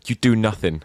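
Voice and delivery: put-on Irish accent. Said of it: "Terrible Irish accent there".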